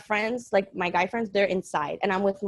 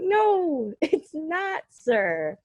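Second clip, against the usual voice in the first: laughing protest; 9 semitones higher, much slower than usual. Retold or imitated. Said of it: "I'm like".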